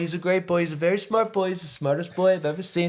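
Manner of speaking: high, slurry tipsy king; drunk Ox King. Retold or imitated. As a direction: babble like a happy drunk grandpa. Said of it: "I don't know why I'm making him, he's, like, drunk".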